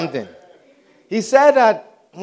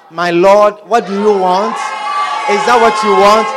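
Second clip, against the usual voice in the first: mock obedient lover. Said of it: "proper, nice, respectful, obedient".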